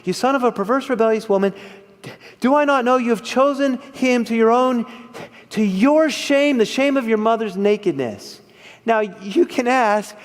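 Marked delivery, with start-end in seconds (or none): 0.0-8.4 mock angry Saul. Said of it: "Saul's anger flares and he says to Jonathan".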